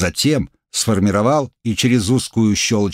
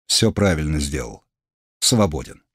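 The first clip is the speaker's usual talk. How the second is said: low, brief dismissal; curt command; 6 semitones lower than usual. Acted. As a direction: dismiss him like a lord. Duke dismisses his man.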